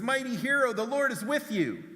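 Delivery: high, ringing declaration; grand angel greeting. Acted. Angel hails Gideon in the wine press, ringing. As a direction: announce it boldly.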